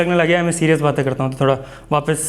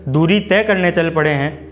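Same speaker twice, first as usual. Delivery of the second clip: poem recitation; 2 semitones higher, slower than usual. Acted. Recites his first poem.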